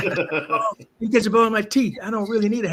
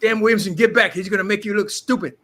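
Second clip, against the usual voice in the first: higher, louder mock coach warning; coach yelling; 4 semitones higher, 4 dB louder than usual. Coach shouting a warning at his player, louder and higher. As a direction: call the warning out across the practice field.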